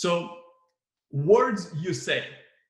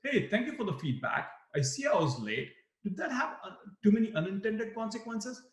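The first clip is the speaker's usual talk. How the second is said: polite, accepting; 7 semitones higher than usual. Shown as a demonstration. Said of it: "Or the other way to say it is".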